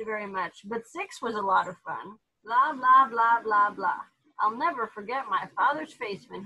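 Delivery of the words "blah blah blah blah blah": babbling dog. Acted.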